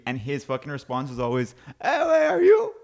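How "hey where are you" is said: high, loud mock-angry squawk; all mad. Teammate's usual answer to a question, high mock anger. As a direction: fire back the catchphrase in high mock anger. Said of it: "Like, all mad".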